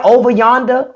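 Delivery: OVER YONDER said the country way; Southern country saying. Shown as a demonstration. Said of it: "there is a language that people from the South have".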